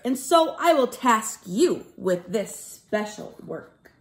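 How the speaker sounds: put-on lively sing-song read to children; bouncy rhyming story voice for kids; storybook narration. A narrator's reading. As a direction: read it like a rhyming picture book to a class. Teacher reads rhyming storybook.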